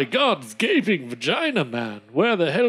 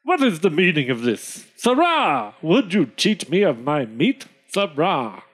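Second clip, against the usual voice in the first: loud blustering lower squire; angry squire; 3 semitones lower, 3 dB louder than usual. Acted. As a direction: bellow at the cheat. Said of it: "the squire shouted angrily".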